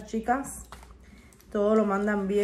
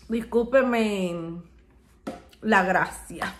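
laughing; much slower than usual. Real, not acted. Laughing apology.

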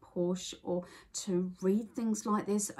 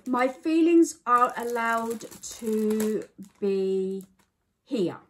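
slow, louder, moved reading of coping statements; emotional reading; 2 semitones higher, 7 dB louder, slower than usual. Real, not acted. Reading anxiety coping statements she relates to, slow and moved. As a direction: read each line as if you need it. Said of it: "I'm trying not to get emotional".

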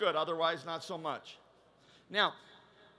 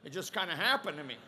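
sheepish churchgoer; 5 semitones lower than usual. Acted. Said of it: "And then most men are like".

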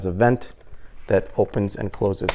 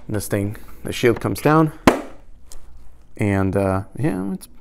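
speaking through helmet chin bar; muffled inside full-face helmet. Real, not acted. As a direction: voice enclosed by helmet shell. Seen 4: Full-face helmet with chin bar worn throughout while talking.

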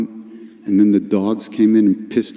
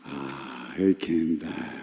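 soft, low sigh of relief; exhale, then let the words sink slowly; hushed, blissful release; breathing in bliss; 7 semitones lower, 13 dB quieter, much slower than usual. Retold or imitated. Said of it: "took a little breath".

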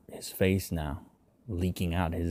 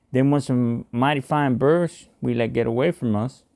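sighing; 5 semitones higher, 5 dB louder than usual. A narrator's reading. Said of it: "Ravy sighed".

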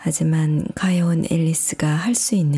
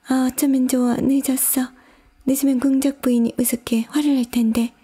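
high, fretful muttering to oneself; worried character voice, pitched high and hurrying at the end; White Rabbit; 8 semitones higher, faster than usual. A narrator's reading. Rabbit hurrying late to the duchess, fretting aloud. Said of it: "중얼거리고 있었다".

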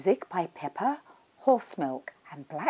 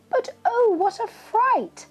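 much higher, startled cry of oh; shocked exclamation; 5 dB louder than usual. A narrator's reading. Narrator telling kids of the fright on arrival, startled. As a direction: gasp at the scary surprise.

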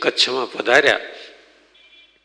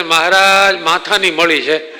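exasperated complaint; 5 semitones higher than usual. Retold or imitated. Ravji tells the Maharaj his wife won't obey, exasperated. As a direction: complain to the Maharaj, fed up and raising your voice.

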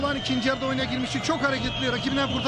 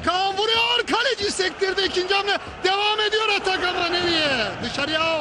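excited commentary; 5 semitones higher than usual. Real, not acted. Shot on goal, rising excitement.

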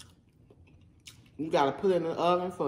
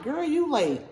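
sassy viewer voice; 10 semitones higher, 4 dB louder than usual. Retold or imitated. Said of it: "some of y'all out there like".

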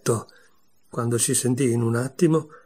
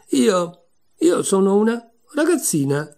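hesitant, higher and louder; unsure of herself, stumbling on; a girl half-doubting her own words; doubtful; 7 semitones higher, 4 dB louder than usual. A narrator's reading. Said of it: "ma quasi dubitando di se stessa".

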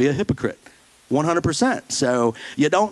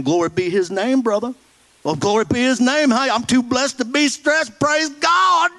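mocking churchy talk; 8 semitones higher than usual. Pastor mocking Sunday-only Christians, hammed-up pious voice. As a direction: ham up the fake holy-roller voice. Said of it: "I can't stand Christianese".

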